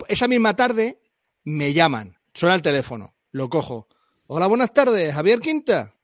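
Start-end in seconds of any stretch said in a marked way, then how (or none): 4.3-5.9 a badly faked Andalusian accent, a bit higher; mock Andalusian accent. A player imitates the shop clerk calling him on the phone, in a bad Andalusian accent. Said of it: "qué mala imitación de acentos".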